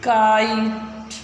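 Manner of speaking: teacher repeating काइट slowly. Shown as a demonstration. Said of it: "अब देखो इनको फिर पढ़ो".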